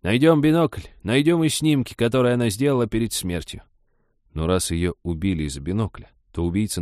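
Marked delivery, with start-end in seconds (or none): 0.0-3.6 high, pressing granny voice; emphatic start, high-pitched; insistent old woman. Acted. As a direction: push the plan hard. Old woman presses her case.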